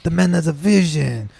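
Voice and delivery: lightly put-on vague Portuguese accent, selling a cousin's handyman work; mock Portuguese immigrant pitching a Kia deal; fake Portuguese accent. Comedian pitching Kia in fake Portuguese accent. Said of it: "racially ambiguous fucking accent".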